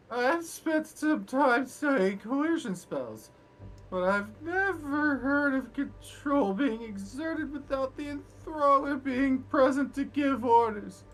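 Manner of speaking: high voice, measured and slow; high, slow NPC voice. Acted. NPC voiced by the game master.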